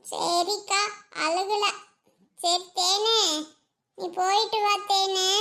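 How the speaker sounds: mildly tearful, lingering goodbye; holding back tears. Acted. Friend told to sound happy bidding the bride goodbye, still tearful. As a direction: insist through tears, understated. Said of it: "சரி விடு, அழுகாத விடு".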